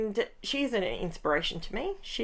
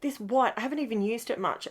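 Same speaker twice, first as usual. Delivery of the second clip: mock tantrum; 4 semitones higher, faster than usual. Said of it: "I was having a tantrum".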